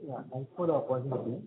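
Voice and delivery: very faint, distant voice; barely audible. Real, not acted. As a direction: voice barely coming through the line. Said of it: "as your voice is very low".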